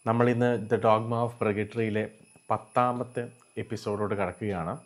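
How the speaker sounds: ordinary talk, nothing marked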